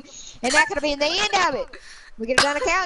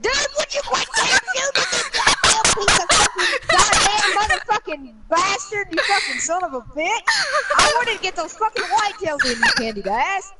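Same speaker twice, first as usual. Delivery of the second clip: angry; 4 semitones higher than usual. Real, not acted. Raging at teammate's shooting.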